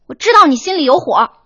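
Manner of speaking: high, loud tearful protest that rushes then slows; crying outburst. Acted. Host cries at partner who snapped at her, loud and high. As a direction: wail the hurt out between sobs. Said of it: "你哭什么呀".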